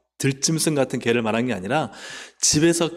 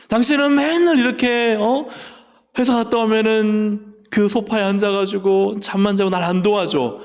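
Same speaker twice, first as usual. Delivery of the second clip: much higher and louder, whining nag; nagging complaint; 7 semitones higher, 3 dB louder than usual. Retold or imitated. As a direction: scold the husband on the sofa. Nagging wife imitated.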